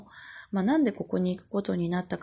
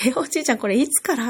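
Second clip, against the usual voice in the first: higher, louder mock astonishment; retold surprised question; 5 semitones higher, 5 dB louder, faster than usual. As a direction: act out startled disbelief at grandpa. Retold startled questions to grandfather.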